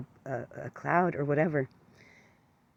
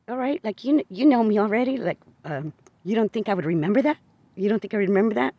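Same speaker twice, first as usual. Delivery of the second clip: higher and louder, arguing in disbelief; exasperated disbelief; 5 semitones higher, 4 dB louder than usual. Retold or imitated. To the neighbor, insisting she'd remember, loud exasperated disbelief. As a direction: push back hard, you can't believe he'd say that.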